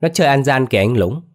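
put-on telling on him to the big kid; tattling. A narrator's reading. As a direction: kid to older boy, whiny tattling. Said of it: "nói như mét".

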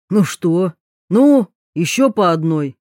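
loud tipsy toast; exclaiming. Acted. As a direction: call out for another round. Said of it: "воскликнул".

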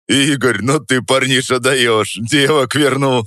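высоко, громче, сквозь хохот; говори, не отсмеявшись; сквозь смех. Acted. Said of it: "задыхался Степан". (Степан сквозь смех восхищается)

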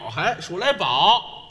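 数来宝 said slowly and clearly. Shown as a demonstration. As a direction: pronounce 还数来宝 carefully, no slurring. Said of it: "还数，数来表".

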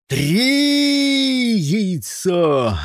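high loud count; shouting. A narrator's reading. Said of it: "крикнул Джон".

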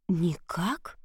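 breathless whispered question; stunned whisper. A narrator's reading. Princess stunned by the witch's prophecy, whispering. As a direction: whisper it in disbelief.

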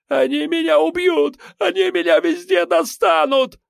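very high, shrill, hysterical wail; hysterical terror. A narrator's reading. Terrified suspect wails that they will kill him. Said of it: "затрясся в истерике".

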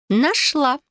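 pleased to have found it; triumphant found it. Acted. Cousin finding the dagger in the wardrobe, triumphant.

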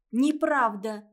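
громкий внезапный выкрик; вырвись неожиданно для себя; крик. Acted. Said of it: "неожиданно для себя закричала Клава". (Клава вдруг кричит на маму, громко)

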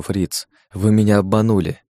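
usual speaking voice

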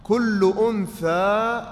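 very slow, stretched for writing; slow dictation. Shown as a demonstration. Teacher dictating the second rule to students slowly. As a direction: dictate it word by word.

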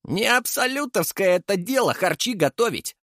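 high, brash and cocky; cocky declaration. A narrator's reading. Leshy brushes off the cooking jab, high and cocky. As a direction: lord it over them. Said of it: "заявил Леший".

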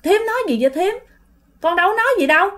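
acted baffled protest; bewildered neighbour. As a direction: ask in mild confusion, innocent. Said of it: "cái chị này giống như là hoang mang".

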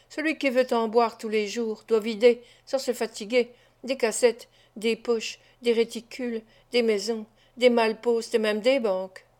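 «des poches, des réticules, des maisons» repris calmement, l'un après l'autre, sans élever la voix; «des malpostes et même des banques» glissés posément, l'air entendu; reprise narquoise. Acted. Fagin répète les mots de Claypole. (Fagin renvoie à Claypole ses propres mots, calme et narquois)

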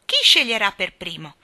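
loud, eager-to-start question; calling out. A narrator's reading. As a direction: call it out to everyone. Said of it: "gridò Nelly Rubina". (domanda gridata a tutti)

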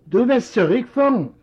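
can't believe what he hears; surprised son; incredulous. Acted. Son echoes father's demand.

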